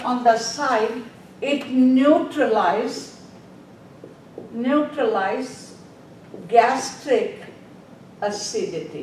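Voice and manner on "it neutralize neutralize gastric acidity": word by word, slowly, for note-taking; slow dictation. Shown as a demonstration. Teacher dictating to nursing students, slow and spaced. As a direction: spell it out slowly so they can write. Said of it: "Write down the".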